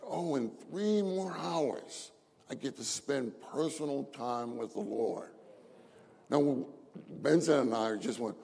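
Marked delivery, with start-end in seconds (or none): 0.0-5.3 soft, retold private musing; talking to himself. Brother waking at night, musing softly to himself about time to pray. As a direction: imitate a quiet thought to oneself. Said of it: "he said to himself".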